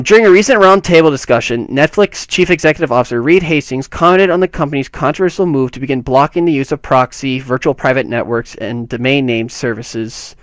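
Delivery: reading news copy aloud, slightly lifted; article read-aloud. Acted.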